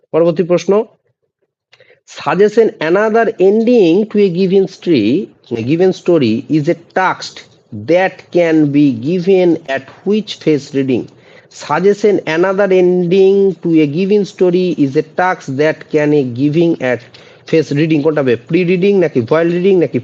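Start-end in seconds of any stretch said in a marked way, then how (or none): 2.2-11.0 slow, deliberate dictation pace; slow quiz reading; slow question read. Shown as a demonstration. Reads quiz question aloud. 11.6-18.0 slow, deliberate dictation pace; slow quiz reading; slow question read. Shown as a demonstration. Reads question again.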